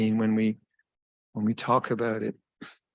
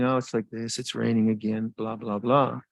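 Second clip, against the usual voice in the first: mildly dismissive, run together in an even tone; offhand, trailing into blah-blah. Acted. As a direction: toss it off as if it hardly matters. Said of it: "It's not just dismissive saying".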